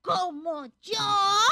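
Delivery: loud, long-drawn disbelief; astonished question. Acted. Told others should be like her, astonished. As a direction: stretch it out loudly in amazement.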